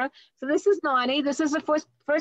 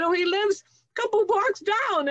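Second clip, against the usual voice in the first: put-on young daughter voice; 12 semitones higher than usual. Child self answering papa.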